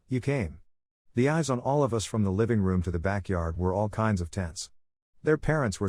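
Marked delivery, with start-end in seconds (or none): 0.1-0.6 voice cracking. Acted. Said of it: "she says with her voice cracking".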